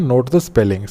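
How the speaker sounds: not the spelling, slow and emphatic on not; stressed correction. Shown as a demonstration. Teacher warning students: slow, emphatic on not. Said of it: "teacher stressing the point".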